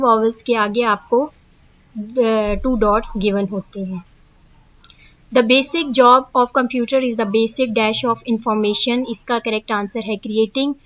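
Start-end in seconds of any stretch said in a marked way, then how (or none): 5.3-9.0 reading the definition word by word, slowly; slow dictation. Acted. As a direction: dictate it slowly so students can copy. Reads question slowly. (धीमे-धीमे लिखवाते हुए पढ़ना)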